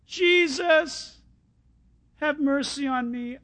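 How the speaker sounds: high call sinking into a plea; despairing cry. Acted. Beggar gets no response from Jesus, despairing plea. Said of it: "it was a cry of despair".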